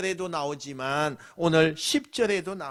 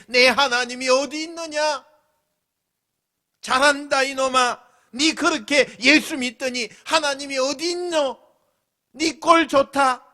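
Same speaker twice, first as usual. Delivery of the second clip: higher, louder scornful jeer; mocking taunt; 6 semitones higher, 6 dB louder than usual. Unbelieving parent jeering at a believer, loud and high. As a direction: scoff at the believing son. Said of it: "안 믿는 부모들에게".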